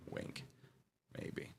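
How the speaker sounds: near-silent sly aside; whispering. Acted. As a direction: drop to a tiny whisper. Sly aside after slip joke.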